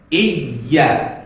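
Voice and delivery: "Iya" with a doubled, pressed y; pressed tasdid. Shown as a demonstration. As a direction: join the two y sounds in "Iya" and lean on them.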